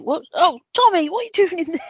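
high, excited pocket-pet voice; high squeaky voice. Pretend. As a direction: squeal up high to a tiny friend. Fake Tom Cruise in pocket.

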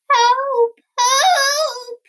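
high, loud cry for help; bellowed. A narrator's reading. Frightened Bear calls out for help, high bellow. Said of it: "bellowed Bear".

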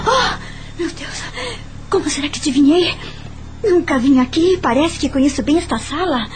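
startled at yourself, a touch agitated; mildly alarmed talking to oneself; startled self-talk. Acted. Startled at own guess, talks to self.

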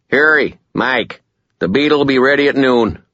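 a hint of gruff mechanic; lightly voiced working man; mechanic on voicemail. A narrator's reading.

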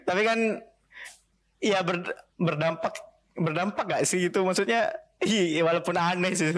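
choppy call audio, words cutting out; glitchy connection dropouts; breaking up audio. Real, not acted. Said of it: "suaramu putus-putus".

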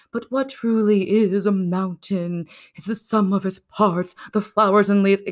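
dreamy, mock-philosophical pondering; mock musing. Climber pausing to muse on the mountain, mock dreamy.

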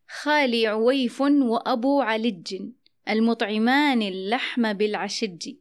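slow verse, علج and العشج ending in a hard j; aj'aja dialect. Shown as a demonstration. Host recites a Bedouin's verse, aj'aja dialect. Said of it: "بلهجة العجعجة".

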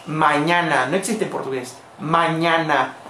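Mañana in three syllables with open A sounds; Spanish mañana. Shown as a demonstration. Teacher showing the Spanish word, open vowels. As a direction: say Mañana low with clear oral vowels. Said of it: "en español".

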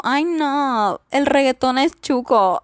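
lightly mocking disdain; mock snooty younger self. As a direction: sniff at reggaeton like a teen snob. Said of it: "Solo era como".

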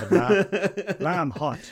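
loud, clipped computer order; robotic order. Pretend. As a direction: bark it at the replicator. Replicator order joke.

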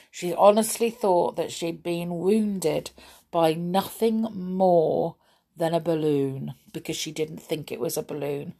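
usual speaking voice

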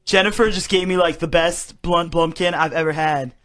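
stoner voice. Pretend. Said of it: "Should I do stoner voice?".

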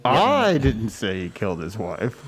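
"I" stressed, said slowly; slow, with weight on "I" alone. Shown as a demonstration. A final try in the emphasis game, stress on "I". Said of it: "put the inflection on the second".

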